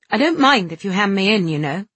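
proud and stern, holding back tears; stern, fighting off tears; stern pride. Acted. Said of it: "a stern pride controlling his tears".

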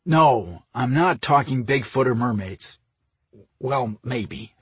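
mildly irritated retort; snapped. A narrator's reading. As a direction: push back with a touch of exasperation. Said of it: "he snapped, in a low voice".

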